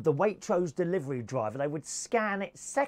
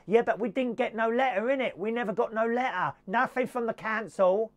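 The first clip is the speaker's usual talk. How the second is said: put-on higher-pitched, working-class British accent; put-on tenant accent; 4 semitones higher than usual. Tenant arguing with the eviction officer, whining working-class accent. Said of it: "got to do the accent".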